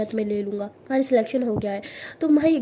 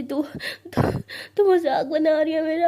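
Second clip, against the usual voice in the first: tearful, broken accusation with a cry in the voice; a crying friend accuses her of mocking, voice cracking; 4 semitones higher than usual. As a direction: sob out the words, stuttering through tears. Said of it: "परी और ज़्यादा रोती है".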